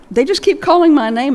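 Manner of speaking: delighted, amazed. Retold or imitated. Sally delighted about winning raffles.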